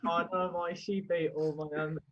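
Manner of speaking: failed Welsh turning West Country; rustic mock West Country farmer; West Country accent. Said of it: "That sounds very West Country".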